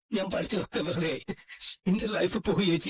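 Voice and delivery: crying. Acted. Brother despairing to his sister, crying. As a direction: let the words break into tears. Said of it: "കരയാതിരിക്കുന്നേ".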